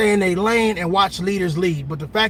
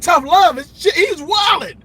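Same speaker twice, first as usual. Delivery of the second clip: imitating the other driver; 10 semitones higher, 5 dB louder than usual. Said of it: "He was like".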